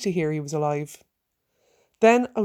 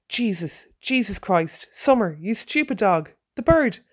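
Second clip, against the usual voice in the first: shouting. Acted. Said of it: "I shouted".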